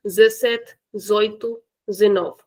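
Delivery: zessete, zoito, zenove clipped short; casual spoken numbers; dropped de. Shown as a demonstration. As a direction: drop the opening de. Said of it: "we can often hear".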